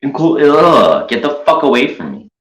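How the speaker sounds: high, creeping menace closing in; creepy stalker voice. Retold or imitated. Mocking Tonic as he creeps up close on the streamer. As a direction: taunt like a horror villain sneaking up. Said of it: "and then Tonic, like".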